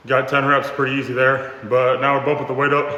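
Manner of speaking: panting between words; breathless after a set; out of breath. Real, not acted. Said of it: "I'm already out of breath".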